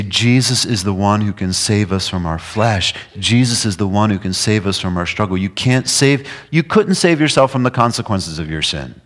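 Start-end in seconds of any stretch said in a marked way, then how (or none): none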